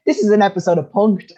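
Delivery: high, loud disbelief through a laugh; retold incredulous outburst. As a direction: exclaim it loudly, mock-incredulous. Retelling her disbelieving outburst to nurse.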